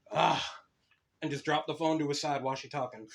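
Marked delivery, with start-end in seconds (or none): 0.1-0.4 mock groan. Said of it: "He immediately went like this".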